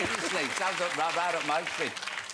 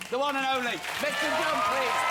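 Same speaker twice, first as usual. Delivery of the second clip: showman announcer; 6 semitones higher than usual. Shown as a demonstration. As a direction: announce him like a variety showman. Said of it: "host announcing guest".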